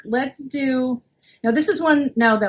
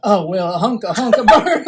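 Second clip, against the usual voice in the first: Impression of a famous singer; 4 semitones lower than usual.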